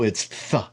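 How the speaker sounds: "th" breathed out, tongue between the teeth as in thief; a breathy soft "th", no stop; soft th demo. Shown as a demonstration. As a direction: say "th" as in thief, just air. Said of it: "if it's a soft tau".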